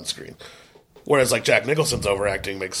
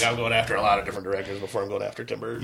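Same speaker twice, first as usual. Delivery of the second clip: blocked nose, mouth breathing; stuffed nose, can't breathe through it; nose packed with gauze; 2 semitones lower, 4 dB quieter, faster than usual. Real, not acted. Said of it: "You literally just drooled on camera".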